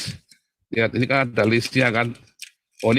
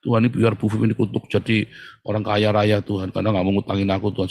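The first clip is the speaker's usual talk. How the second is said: babbling mock prayer; 4 semitones lower than usual. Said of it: "di awal mungkin kamu nerocos".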